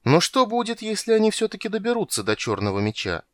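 high-pitched, musing question; pensive drawl. A narrator's reading. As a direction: wonder aloud, drawing it out. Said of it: "задумчиво протянул Крысюк". (задумчиво, протяжно)

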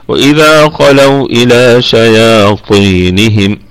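slow, sustained tajweed recitation; Quranic recitation. Shown as a demonstration. Tajweed teacher reciting the verse for students, slow recitation. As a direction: recite slowly, stopping on a still final meem. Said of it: "فنقف عليها بالسكون المحض".

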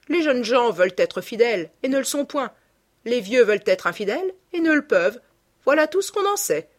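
lightly voiced emphatic aristocrat holding forth; animated Lord Henry figure. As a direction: pitch the pronouncements up a little, with energy.

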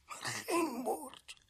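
slow, choked whisper near tears; dying man's tearful plea. Acted. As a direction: plead it through a sob. Dying man pleads innocence.

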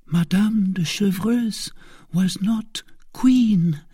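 hushed whisper to the Duke; the queen whispers her confession; murmured. A narrator's reading. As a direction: let it slip out under her breath. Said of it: "murmured Anne of Austria".

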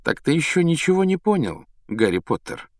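high, silky question falling away on the name; Реддл, insinuating. A narrator's reading. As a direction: coax him towards the truth. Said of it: "вкратчиво спросил Реддл". (вкрадчиво)

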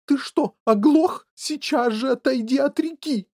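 high, loud exasperated order; scolding mother. A narrator's reading. Mother ordering son from the river, scolding.

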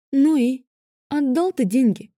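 high, hurried question; hurrying. A narrator's reading. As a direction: push him for an answer. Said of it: "поторопила Линда".

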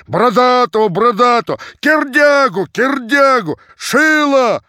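very high, loud clashing shouts; crowd uproar. A narrator's reading. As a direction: bellow each name as a chant. Crowd chanting names in uproar.

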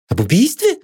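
high, startled fearful echo; frightened. A narrator's reading. Maid Anne frightened by the word murder. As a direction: gasp it out scared. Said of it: "испуганно повторила мисс Лиффорд".

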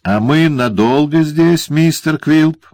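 obsequious lawyer's question; fawning lawyer. Acted. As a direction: grovel politely to Quilp. Brass asks timidly.

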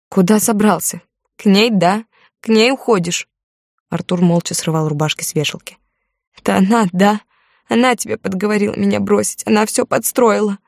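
a hint of a jealous wife demanding answers. Jealous wife voiced, higher.

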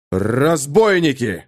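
slow clipped officer's command. Acted. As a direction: rap it out like an officer. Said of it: "офицерским голосом отчеканил".

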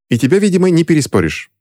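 высоко, с досадой; сдаться с ворчанием; ворчливо. A narrator's reading. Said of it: "проворчала Дороти". (Дороти ворчит на Кристину)

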